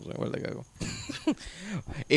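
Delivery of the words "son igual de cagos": breathy stifled giggle; trying not to laugh. Real, not acted. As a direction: choke back the laugh. Holding back laughter in story.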